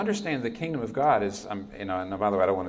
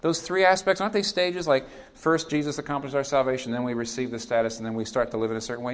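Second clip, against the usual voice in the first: higher, questioning objector; imagined objector; 4 semitones higher, 3 dB louder than usual. Pretend. A listener in the pews pushing back, mildly questioning. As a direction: voice the skeptic raising his hand. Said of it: "if you sit there and say".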